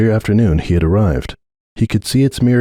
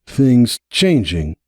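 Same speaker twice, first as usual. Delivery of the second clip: nervous; 4 semitones higher, much slower than usual. Acted. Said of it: "swallowed his nervousness".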